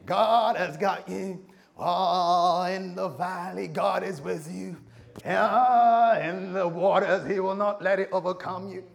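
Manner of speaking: a visiting preacher firing up the church, booming; American hype preacher. Shown as a demonstration. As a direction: belt it out to stir the congregation. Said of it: "I'll bring a few folks here".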